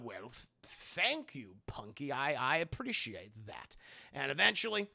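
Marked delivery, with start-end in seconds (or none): 0.0-3.8 put-on touched old man. Henry moved by Punky's praise of his work. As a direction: get choked up a little. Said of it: "he's like".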